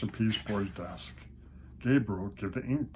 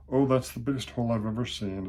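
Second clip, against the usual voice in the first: louder, full of wonder; admiring; 3 semitones higher, 6 dB louder, faster than usual. Acted. Gabriel praises Peter's big hole, admiring and louder. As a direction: marvel at the hole. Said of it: "admired Gabriel".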